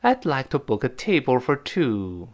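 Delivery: read-along model. Shown as a demonstration. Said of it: "跟老师读一遍".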